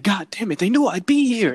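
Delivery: cornered at Popeyes, hammed-up panic; mock panic. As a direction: squeal like you've been caught.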